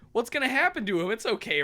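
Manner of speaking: high, fast anxious questioning; mock worry. Friends worrying about him, mock anxiety.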